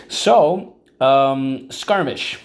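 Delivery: high, loud call of skirmish; teacher calls the new word to class, loud and high. Shown as a demonstration. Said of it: "teacher calls word to class".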